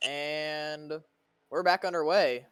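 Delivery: excited call. Real, not acted. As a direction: call the green flag with energy. Restart call, rising excitement.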